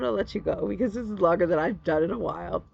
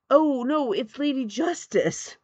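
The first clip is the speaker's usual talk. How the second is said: high, drawn-out retold protest; mock correction; 8 semitones higher, slower than usual. Stitcher corrects the receptionist about her picture, high mock protest. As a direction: correct them in a raised, slowing voice.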